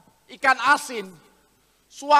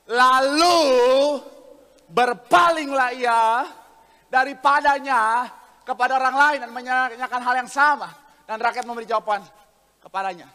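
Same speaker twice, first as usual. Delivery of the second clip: scripture reading; 6 dB louder than usual. Acted. Preacher reads the verse to congregation, declamatory scripture reading. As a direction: proclaim the verse with stretched opening words.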